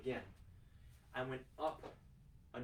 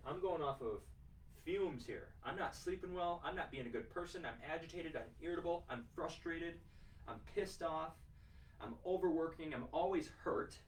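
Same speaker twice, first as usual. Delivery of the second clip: a raised, fed-up complaining voice; frustrated client; 4 semitones higher than usual. Retold or imitated. Coach voicing a burnt-out client listing complaints, higher and fed up. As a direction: list the burnout gripes in a higher, exasperated voice.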